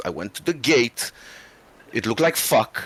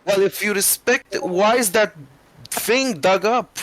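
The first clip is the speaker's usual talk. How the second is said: high-pitched caretaker voice; 11 semitones higher than usual. Acted. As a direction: squeak it out like a fussy groundskeeper. Gravekeeper voice confronts stoner.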